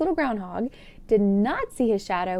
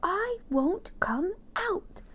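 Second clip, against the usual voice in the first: high, slow, sulky no; grumpy groundhog refusing; stubborn refusal; 10 semitones higher, much slower than usual. Acted. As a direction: dig in your heels. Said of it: "the groundhog said".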